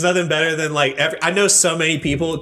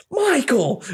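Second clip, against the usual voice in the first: excited call; 12 semitones higher than usual. Retold or imitated. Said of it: "whenever my dad tells the story".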